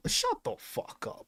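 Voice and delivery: breathy whispered brush-off; muttered whisper of contempt; whispered aside. Real, not acted. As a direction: hiss it under your breath dismissively. Dismissive aside, unvoiced.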